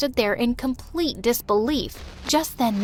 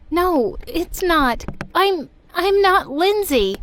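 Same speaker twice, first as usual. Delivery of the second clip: distressed confession; 5 semitones higher, 4 dB louder, slower than usual. Acted. Confessing the switch, upset.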